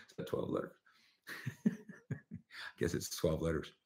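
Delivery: breathy laughing whisper. Real, not acted. Host whispers while laughing about the swear. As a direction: whisper it as a giggly aside.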